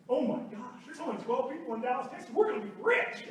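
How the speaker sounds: excitedly imitating his wife, voice jumping up at the end. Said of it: "Holly turns around and goes".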